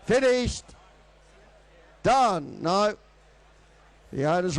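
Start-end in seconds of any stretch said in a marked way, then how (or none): 0.0-2.9 fast rhythmic auctioneer bid calling; frantic trading floor shouting. Acted. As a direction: rattle off the bids like an auctioneer.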